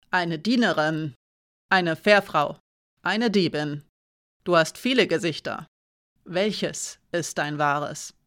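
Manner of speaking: a hint of a menacing guard; lightly voiced threatening soldier; stern guardswoman. Guardswoman confronts Hiraya.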